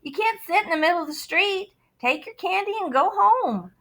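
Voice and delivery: lightly voiced gruff officer; stern policeman. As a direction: tell the kid off. Policeman scolds kid in street.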